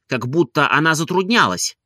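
plain reading voice

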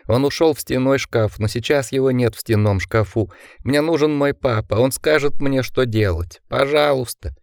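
a hint of a tearful little boy; lightly voiced bewildered child pleading; crying five-year-old voice. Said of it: "плачущим, недоумевающим голосом пятилетки". (слегка плачущий голос растерянного малыша)

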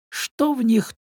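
put-on slow, grumbling old uncle. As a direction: grumble it under the breath. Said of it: "проворчал дядюшка Тоби".

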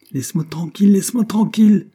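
high, loud irritated outburst. A narrator's reading. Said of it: "Henry se laissait aller à son irritation".

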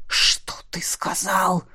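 quiet menace of a hidden monster; deadly quiet whisper; menacing whisper. Acted. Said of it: "говорил тихо".

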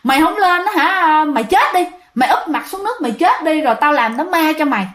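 retold exasperated threat, a touch heated; mock angry big brother yelling at his drunk sibling; angry retort. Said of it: "Thành ra bạn tức".

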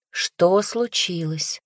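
calm him down while asking; calm question. Acted. Настя как можно спокойнее спрашивает брата. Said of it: "как можно спокойнее узнать".

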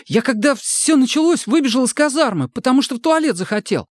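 high, anxious pleading voice; a scared boy talking fast to save himself; frightened young recruit. A narrator's reading. Сомик оправдывается перед сослуживцами, испуганно и высоко.

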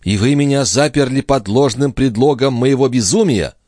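high, loud indignant question; high, loud young woman; outraged accusation. Acted. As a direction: confront him furiously. Lorenza outraged.

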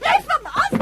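high, loud cry to be let go; high angry yell in a scuffle; fighting back. Acted. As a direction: shove the words out while struggling. Child fighting off attacker.

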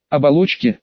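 ordinary delivery, nothing marked

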